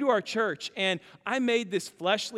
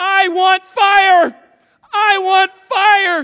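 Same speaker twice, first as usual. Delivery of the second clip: put-on very high, very loud, shrill, drawn-out toddler tantrum wail; 12 semitones higher, 16 dB louder than usual. Retelling how a two-year-old screamed on being picked up, imitating a screaming toddler. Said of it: "he starts screaming".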